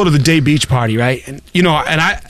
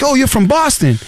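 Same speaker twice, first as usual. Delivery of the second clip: excited stranger; 9 semitones higher than usual. Retold or imitated. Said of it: "And he's like".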